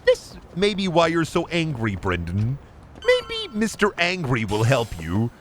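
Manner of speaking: lightly mocked counselor, pitch lifted then dropping; guidance counselor. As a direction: gently imitate a counselor handing out advice.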